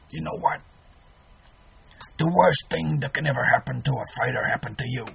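put-on a light New York Irish trainer accent. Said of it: "in my best Irish, New York Irish accent".

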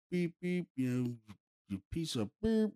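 high-pitched mock bleep; imitated censor beep. Ghost hunter censoring his taunts, mock beeps. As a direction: make a short vocal bleep.

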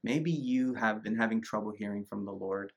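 soft, earnest prayer over listeners; hushed blessing; spoken prayer. Real, not acted. Prays over the viewers.

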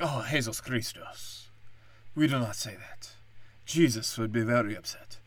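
lightly voiced wife, mildly prim; mock scolding wife. Wife scolding husband at the table, lightly voiced prim tone.

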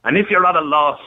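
measured recital in short phrases with pauses; poem read out on air. Acted. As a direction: read a heartfelt verse aloud, line by line. Reads his own poem.

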